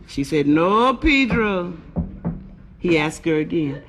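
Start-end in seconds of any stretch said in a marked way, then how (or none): 0.5-1.7 slow, drawn-out no; Rosita refusing. Acted. Rosita turns down Pedro, drawn-out refusal. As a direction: stretch both words into a firm refusal.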